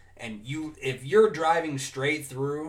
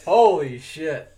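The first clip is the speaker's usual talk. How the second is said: laughing; 3 semitones higher, 12 dB louder, much slower than usual. Real, not acted. Still cracking up.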